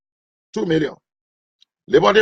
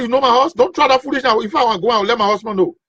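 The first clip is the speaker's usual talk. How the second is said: higher, mock indignant woman; woman scolding; 5 semitones higher than usual. Wife warning the young man off, lightly higher and indignant. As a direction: bristle like an offended wife. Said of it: "The woman say".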